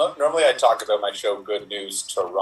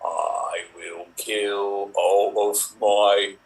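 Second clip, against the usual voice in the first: lightly played king, slow delivery; slow, hammy royal self-introduction; Henry the eighth; much slower than usual. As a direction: draw out the words as a makeshift monarch. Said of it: "Henry the eighth settles down?".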